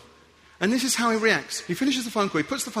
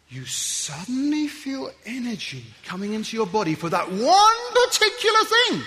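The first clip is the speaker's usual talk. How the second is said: surging excitement. Acted. Energy rising for your thing.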